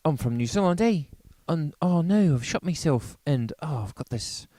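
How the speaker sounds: hammed-up Kiwi accent, loud and high; over-the-top New Zealand accent, shouting. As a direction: play a bumbling New Zealander. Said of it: "you do your New Zealand".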